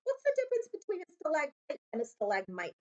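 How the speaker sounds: high boyish voice, lightly put on; a curious boy asking over the noise; young Harry voice. A narrator's reading.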